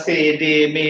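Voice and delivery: সে, ডে, মে each with a short pure "e"; no "ee" glide on সে, ডে, মে; mislearned vowel. Shown as a demonstration. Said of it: "এগুলো বলতাম".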